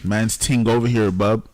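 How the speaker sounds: light mock Jamaican accent, hint of a rapper; playful Jamaican patois impression. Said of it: "Jamaican Nigerian accent".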